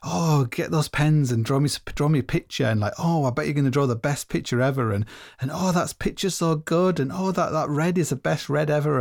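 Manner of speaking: mock sugary parent praising a child's drawing; positive parent. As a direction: lay on the cheery encouragement. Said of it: "the positive parent was like".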